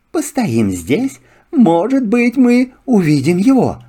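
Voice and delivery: high, lively fox. Acted. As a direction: chatter like a sly fox. Fox speaks. (голос лисы)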